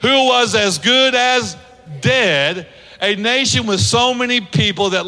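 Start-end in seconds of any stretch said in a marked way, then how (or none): 0.0-2.7 congregation call. Shown as a demonstration. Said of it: "let's say it together".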